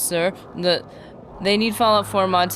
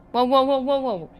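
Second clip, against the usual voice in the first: surprised whoa; 6 semitones higher than usual. Real, not acted. Reacting to donation.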